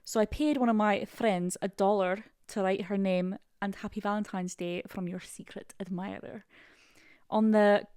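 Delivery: attempted Scottish reading voice; Scottish accent. Co-host reading a crush story, Scottish accent. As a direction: read it out in Scottish. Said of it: "I wanna do one in Scottish".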